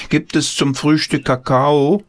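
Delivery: lightly voiced boy calling to the kitchen. A narrator's reading. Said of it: "rief Paul". (Kind ruft hoffnungsvoll in die Küche)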